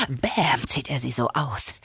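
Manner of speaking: whispered cool aside. Retold or imitated. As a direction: breathe it out cool and quiet. Cool sunglasses move acted out.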